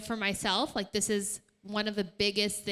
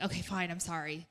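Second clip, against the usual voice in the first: begrudging sorry; 4 semitones lower, 4 dB quieter than usual. Retold or imitated. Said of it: "maybe begrudgingly".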